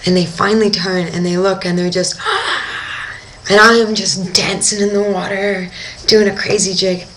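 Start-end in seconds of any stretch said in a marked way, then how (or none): 2.2-3.2 high, airy mock gasp; amazed gasp. Divers finally seeing the two sharks, amazed gasp. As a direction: gasp sharply in imitated amazement.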